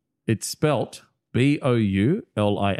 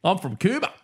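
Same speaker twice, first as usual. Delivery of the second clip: higher-pitched mock Australian townie; local Aussie accent; 7 semitones higher than usual. Player posing as a town local, hammed-up Aussie accent. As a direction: talk like an Aussie local with a rising end. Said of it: "exactly what they would say".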